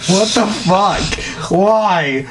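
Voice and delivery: shocked disbelief. Real, not acted. Disbelief at the story.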